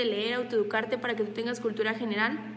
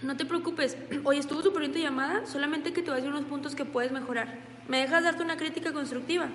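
reassuring coach; 2 semitones higher than usual. Shown as a demonstration. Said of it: "hizo mala llamada la persona".

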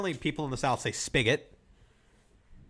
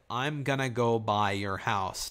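Yooper phrase; slower than usual. Shown as a demonstration. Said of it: "repeat the Yooper phrase".

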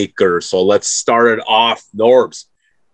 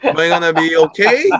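doubtful LeBron James; 6 semitones higher than usual. Retold or imitated. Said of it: "it's like".

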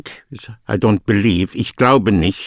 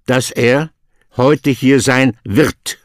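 the corrected order, wird held to the end, a little slower; correct word order. Shown as a demonstration. Teacher gives the student the corrected German, wird at the end. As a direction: say dass er heute hier sein wird with wird last, as the correct form.

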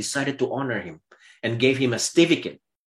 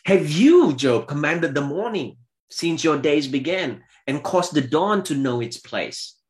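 God's challenge; 3 semitones higher than usual. Acted. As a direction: thunder the first words like God. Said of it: "God says".

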